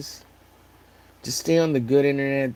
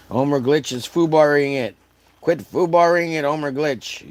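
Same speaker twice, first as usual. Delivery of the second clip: mock scolding; 3 semitones higher, 7 dB louder than usual. Scolding himself in jest.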